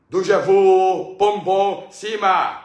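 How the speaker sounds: drawn-out loud nonsense cry; mock loud outburst; silly shout. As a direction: belt out gibberish.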